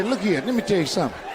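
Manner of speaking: quick old-man scolding put on with a spin; hammed-up old man telling her off. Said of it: "put that spin on it".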